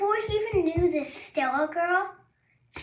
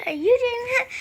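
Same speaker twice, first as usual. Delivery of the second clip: higher, louder disbelieving question; shocked question; 6 semitones higher, 5 dB louder, much faster than usual. Retold or imitated. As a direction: demand it, shocked. Acted accusation, higher.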